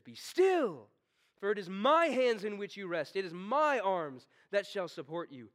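loud, firm and steady command; booming father. Acted. God speaks to his frightened child, booming and steady. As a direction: hold them up with your voice. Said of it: "This is a father's booming".

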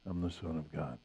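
very low, hushed, certain reply; calm quiet authority. Acted. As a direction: answer the outcry softly, without arguing. Jesus's answer to outraged challengers.

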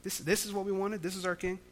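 quiet, let-down grumble; a soft, disgruntled aside; frustrated muttering. Retold or imitated. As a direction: say it under your breath, disappointed in yourself. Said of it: "a little frustrated with themselves".

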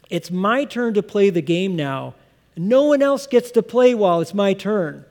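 lightly voiced child laying claim to the game; bossy kid claiming his turn. Preacher voicing a boy to other kids, firm and possessive. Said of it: "it's a strong statement".

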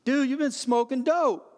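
high, loud accusation; accusing dad. Retold or imitated. Father confronting his teenage son at one a.m., loud and accusing. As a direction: call him out hard.

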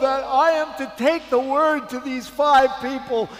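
high, overwhelmed voice of a weeping woman; imitated crying. Preacher quoting the stranger given books for her friends, imitated tearful fervour. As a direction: retell her tearful outburst, pitched well up. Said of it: "she starts crying. I mean crying".

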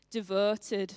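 devoted in a northern English accent. Shown as a demonstration. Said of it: "hard to say that in a northern accent".

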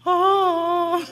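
high, loud delighted oh; light up at the discovery; a preacher's delighted exclamation. Real, not acted. Delighted at the friend's insight.

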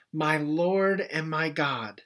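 slow, hushed words of awe; awed confession. Retold or imitated. Thomas kneeling before the risen Jesus, slow and awed. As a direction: let the words land slowly in wonder.

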